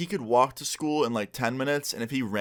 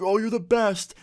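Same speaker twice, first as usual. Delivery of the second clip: high, loud burst of grateful relief; relieved gushing; 10 semitones higher, 3 dB louder than usual. Retold or imitated. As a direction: gush like you've just been saved. John relieved Austin agreed.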